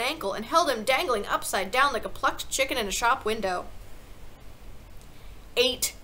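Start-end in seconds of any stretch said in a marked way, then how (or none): 5.6-5.9 loud, drawn-out instruction; emphatic headmistress shout. A narrator's reading. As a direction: drum the words in forcefully. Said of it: "the Trunchbull shouted".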